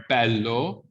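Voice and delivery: "Bello" with an open E. Shown as a demonstration. Teacher repeating the example, open E in "Bello". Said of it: "that vowel's open, right?".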